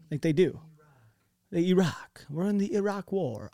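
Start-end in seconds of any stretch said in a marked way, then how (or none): 1.5-3.5 lightly put-on British lady accent; mock British accent. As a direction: imitate a sophisticated British newsreader, lightly. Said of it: "it's always, like, some British lady".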